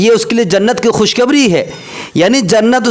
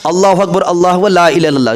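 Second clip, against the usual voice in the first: azan recital; faster than usual. Shown as a demonstration. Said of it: "जिस तरह कह रहे हैं".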